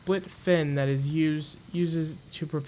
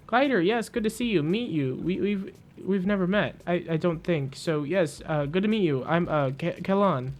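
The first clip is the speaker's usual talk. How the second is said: lightly voiced nervous, stammering character; a hint of a jittery Mechanist meeting the Glider; jumpy Mechanist; 2 semitones higher than usual. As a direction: stumble over the words like a twitchy stranger. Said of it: "Kellan rocks back and forth".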